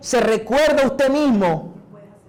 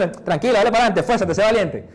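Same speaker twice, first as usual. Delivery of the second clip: laughing encouragement. Retold or imitated. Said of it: "Y Dios dice".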